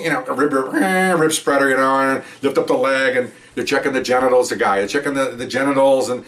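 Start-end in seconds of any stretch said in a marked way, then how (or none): 0.7-1.1 high mechanical "eh"; imitated tool whine. Officer mimicking the rib spreader, high whine.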